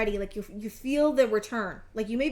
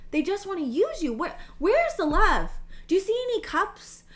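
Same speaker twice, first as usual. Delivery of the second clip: higher, incredulous outrage; real indignation; 7 semitones higher, 4 dB louder than usual. Real, not acted. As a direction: demand answers, mad on their behalf. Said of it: "I, I'm mad".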